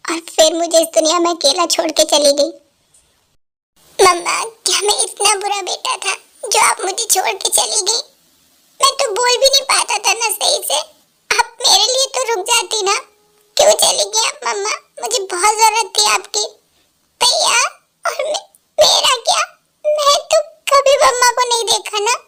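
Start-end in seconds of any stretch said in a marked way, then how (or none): 4.0-16.5 put-on grieving young son. Son cries for dead mother. 17.2-22.2 high voice breaking into sobs; a small child sobbing out her hurt; little sister crying, pitched high; crying little girl. Acted. Little sister cries to brother.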